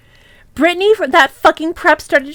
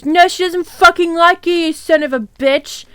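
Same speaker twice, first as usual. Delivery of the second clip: mild acted yell; half-hearted angry insult; mock yell; 3 semitones higher than usual. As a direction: argue back in a slightly raised voice. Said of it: "yelled Draco".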